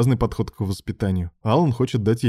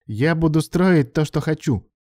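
through gritted teeth; 7 semitones higher than usual. A narrator's reading. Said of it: "процедил сквозь зубы".

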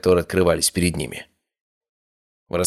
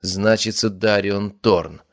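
calm and deliberate; 2 semitones higher, much slower than usual. Acted. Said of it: "невозмутимо продолжил Эрик".

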